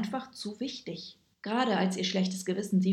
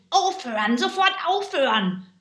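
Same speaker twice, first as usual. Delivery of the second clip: much higher, louder panicked scream; 9 semitones higher, 7 dB louder than usual. A narrator's reading. Wobbling villain screams at the animals to stop. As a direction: shriek it as the ground wobbles. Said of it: "Der Tintenkiller wankte und schrie".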